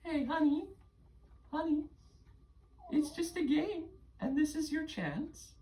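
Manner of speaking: high, gentle coaxing; tender reassurance. Real, not acted. Game master parent calms child over the game, tender reassurance.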